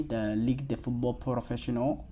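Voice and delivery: Ligue de Football Professionnel said with a light French accent; a hint of French accent on the French name. Shown as a demonstration. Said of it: "I don't know why I used the French accent".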